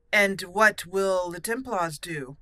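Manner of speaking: measured, stately Grey Warden commander; formal hero roleplay voice. Acted. Warden commander formally accepting friendship, then urging aid, in a stately roleplay voice. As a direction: speak like a dignified knight asking for help.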